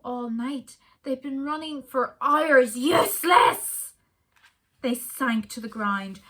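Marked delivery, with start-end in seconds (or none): 2.8-3.9 slow, loud, higher howl of a monster dog; a black dog's slow, loud howl; howled word. Acted. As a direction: howl the word out, drawn out and huge. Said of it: "a howl that stayed and became a word".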